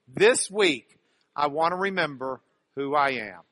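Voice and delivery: fuller voice, firm and even; leading group recitation. Shown as a demonstration. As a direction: lead everyone through the line together. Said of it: "Say it with me".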